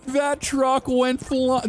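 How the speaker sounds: slow words through laughter; laughing while talking. Real, not acted. Streamer describing the flying truck, still laughing. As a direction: talk through the giggles.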